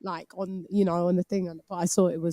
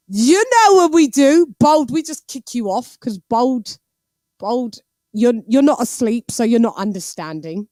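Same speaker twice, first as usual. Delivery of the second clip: mock call-out; 3 semitones higher, 6 dB louder than usual. Teasing sleeping viewer Bold.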